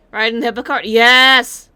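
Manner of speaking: excited yes. Real, not acted. Cheering on the hippo cart.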